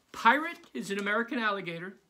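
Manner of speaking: high, loud eager teacher; bubbly teacher announcing surprises. Acted. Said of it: "Missus Zappi began".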